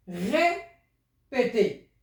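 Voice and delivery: very slow, each syllable drawn out; slow demo. Shown as a demonstration. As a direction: stretch out "Répété" slowly for the pupils. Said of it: "teacher demonstrating pronunciation".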